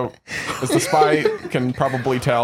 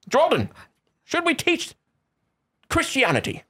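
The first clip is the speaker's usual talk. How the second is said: put-on character voice; 10 semitones higher than usual. RPG character voice continues.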